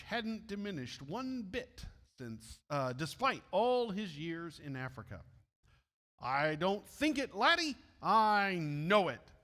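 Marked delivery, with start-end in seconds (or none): 6.2-9.3 a touch of a Scottish brogue, laddie rising high; lightly voiced Scottish missionary, firm; Scottish accent. Moffat answers David in a hint of Scottish accent. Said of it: "began to speak in his strong Scottish accent".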